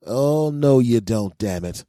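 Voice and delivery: loud, high-swooping protest; exasperated outburst, dropping at the end; indignant refusal. Acted. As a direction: cut them off loudly. Acted refusal of advice seeker.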